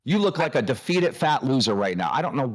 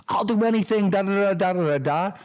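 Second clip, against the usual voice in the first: high whiny begging imitation; mock pleading for a job; 5 semitones higher than usual. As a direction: parody a desperate job-seeker, pitched up. Mocking his begging for the job.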